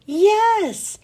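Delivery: put-on loud, high cheer of kids; excited class yelling yes; yelled. A narrator's reading. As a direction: shout yes together. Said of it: "My friends all yelled".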